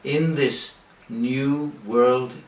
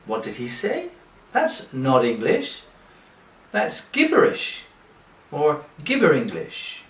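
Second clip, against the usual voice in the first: confused learner; 2 semitones higher than usual. Retold or imitated. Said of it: "And you say".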